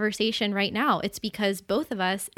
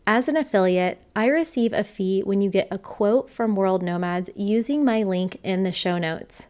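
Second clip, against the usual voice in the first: ad read; 4 dB louder than usual. Acted. Reads sponsor ad.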